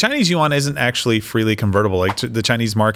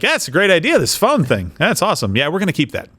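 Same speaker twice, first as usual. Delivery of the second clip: mock Chinese official; 5 semitones higher than usual. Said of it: "they can basically be like".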